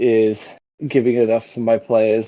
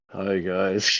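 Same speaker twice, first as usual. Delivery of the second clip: soft, worn-out, low-energy tired voice; 3 semitones lower, 8 dB quieter than usual. Describing playing a d&d character at an early uk start time, mimicking a tired voice. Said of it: "do tired".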